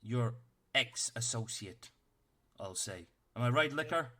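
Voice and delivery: a tiny officer barking orders at the party; stern little captain. Acted.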